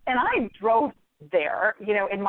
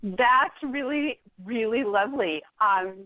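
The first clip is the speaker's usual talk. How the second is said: fake polite. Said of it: "close the book very gently and I say".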